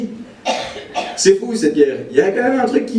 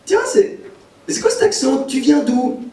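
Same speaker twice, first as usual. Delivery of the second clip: higher-pitched, curious questioning; mock puzzled Parisian; 5 semitones higher than usual. Parisian asks a Belgian about his accent, mock puzzled. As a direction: imitate a local intrigued by a foreign accent.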